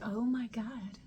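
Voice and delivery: softly awestruck retold reaction; quietly amazed, reliving the moment; hushed awe. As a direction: drop softly, as if stunned by what you saw. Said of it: "in awe of this moment".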